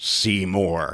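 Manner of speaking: mock deep booming voice. Retelling a voice heard in a cave: imitating a deep booming voice. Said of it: "I heard in a deep voice that filled the chamber".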